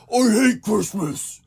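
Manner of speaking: high, drawn-out hammed-up bratty yell; loud, slow, high-pitched mock shout. A narrator's reading. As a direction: scream it out like a furious kid in a tantrum.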